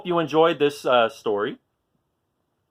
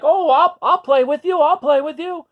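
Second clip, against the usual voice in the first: high, louder dinosaur voice, pleading to join; eager little dinosaur; 13 semitones higher, 6 dB louder than usual. Acted. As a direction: beg to play, a bit desperate. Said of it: "he's like".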